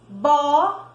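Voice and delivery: Bola said in two slow syllables. Shown as a demonstration. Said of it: "Abrir a boca duas vezes".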